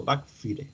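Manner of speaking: "Backfire" read as written, bak-FEE-reh; quick check of "Backfire" with Spanish vowels; spelling pronunciation. Shown as a demonstration. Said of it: "está bien escrito".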